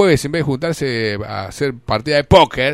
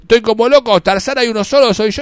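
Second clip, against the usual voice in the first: mock crazed shout; 5 semitones higher, 5 dB louder than usual. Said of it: "le gritaba".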